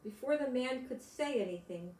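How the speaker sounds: gentle storybook reading; picture book read aloud to kids; story narration. A narrator's reading. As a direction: read it to small children, unhurried.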